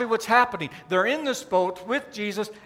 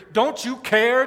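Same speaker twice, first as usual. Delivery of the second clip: louder, pressing appeal; pleading protest; 3 semitones higher, 5 dB louder than usual. Acted. Swamped believer appealing to Jesus, pleading loudly.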